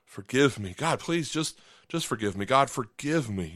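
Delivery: hushed repentant plea; remorseful prayer. Retold or imitated. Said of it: "I just prayed".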